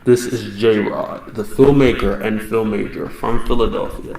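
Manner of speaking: muffled through a mask; talking behind a face mask; inside a rubber mask. Real, not acted. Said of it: "I'm gonna take this mask off because I can't even see in it".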